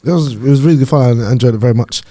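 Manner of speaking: measured, evasive public statement; politician voice. Acted. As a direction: answer like a politician dodging the question. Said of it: "I've never heard your politician voice ever before".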